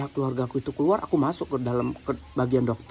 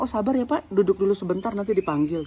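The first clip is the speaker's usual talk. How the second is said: higher-pitched, easing down as it goes; polite reassurance; 5 semitones higher than usual. Shown as a demonstration. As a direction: show how to politely ask someone to wait. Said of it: "tinggal bilang".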